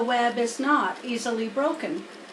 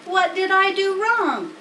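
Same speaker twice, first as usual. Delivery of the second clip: higher, louder bewildered question; puzzled pig; 8 semitones higher, 5 dB louder than usual. Acted. Wilbur asking Charlotte, high puzzled pig. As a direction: Wilbur baffled after his fall.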